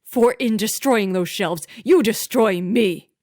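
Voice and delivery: loud raging husband's tirade; furious shout. A narrator's reading. Master shouting at housekeeper over shelves, furious. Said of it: "Franklin shouted so loudly".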